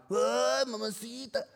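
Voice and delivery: a hint of a construction worker catcall; lightly voiced construction guy whistling at a girl. Workers calling to a passing girl, mild mock catcall. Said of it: "construction mindset when a girl walks by".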